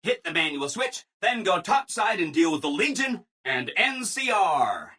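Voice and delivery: punchy, excited instructions; eager send-off. Acted. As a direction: send them into battle with relish. Eager take of a repeated line.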